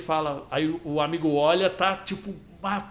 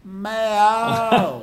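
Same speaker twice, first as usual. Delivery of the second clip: cat meow; 2 semitones higher than usual. Retold or imitated. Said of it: "o gato também é baiano".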